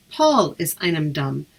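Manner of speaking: slow, careful "Paul is einem Dum"; teacher modelling "Paul is einem Dum" slowly; Irish reply demo. Shown as a demonstration. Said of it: "the person might respond".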